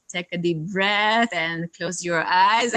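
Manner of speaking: slow, calm class cue; yoga instruction. Shown as a demonstration. Yoga teacher giving class cues, calm and slow. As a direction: guide the breath gently. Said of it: "it would be much easier to say, like".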